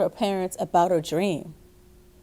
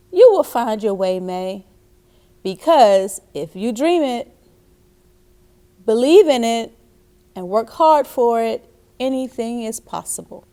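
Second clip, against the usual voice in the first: encouraging dad; 4 dB louder than usual. Acted. Dad voiced encouraging May.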